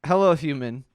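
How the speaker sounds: loud, stiff announcer read; robot voice. Acted. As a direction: read it like a robot greeting humans. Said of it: "Can you read this in a robot voice?".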